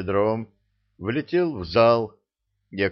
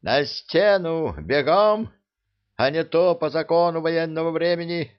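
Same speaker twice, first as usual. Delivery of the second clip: barked order; 8 semitones higher, 3 dB louder than usual. A narrator's reading. Officer ordering deserter to wall.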